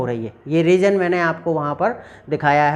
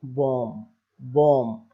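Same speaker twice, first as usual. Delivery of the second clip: Ajay Devgn line; 3 semitones lower, slower than usual. Retold or imitated. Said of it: "उसमें वो बोलता है".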